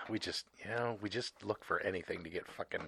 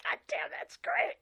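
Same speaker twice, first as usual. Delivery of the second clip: whispering; 8 semitones higher than usual. Real, not acted. Whispered reaction after a drink.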